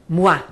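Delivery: moi said mwa; French moi. Shown as a demonstration. Teacher showing students the stressed pronoun moi. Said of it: "pronome tônico em francês".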